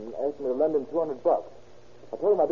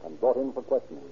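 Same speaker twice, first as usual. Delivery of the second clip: radio drama narration. A narrator's reading. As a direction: tell the crime story like an old radio narrator. Radio narrator sets the scene.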